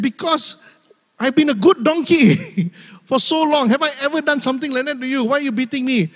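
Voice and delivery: high-pitched pleading donkey; talking donkey. Acted. Loyal donkey asking why it is beaten, talking-donkey voice. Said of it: "The donkey can talk, just like the movie".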